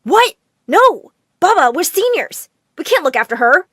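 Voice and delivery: high, loud shocked outcry; loud teenage objection, voice shooting up; screamed protest. A narrator's reading. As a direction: cry out in dismay. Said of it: "both screamed together".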